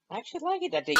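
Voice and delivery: high, loud cackling laugh; scornful guffaw; mocking laughter. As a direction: burst out laughing at him. Gordon laughs at Thomas being hero.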